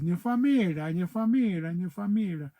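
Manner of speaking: quoting the new word for family, lightly mocking; imitating everyone. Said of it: "now everybody says".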